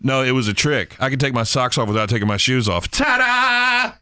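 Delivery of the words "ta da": magician's assistant. Pretend. Reveals sock trick like magician.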